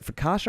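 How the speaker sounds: focaccia said with a soft "sh", like "fo-KAH-sha"; mispronounced focaccia. Real, not acted. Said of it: "I've been saying focaccia".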